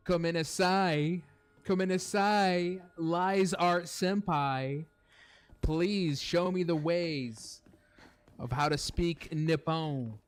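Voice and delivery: high, slow, hammed-up Japanese anime accent; mock Japanese accent. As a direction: beg forgiveness in an over-the-top fake Japanese accent. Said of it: "I got some of that Nippon accent in there".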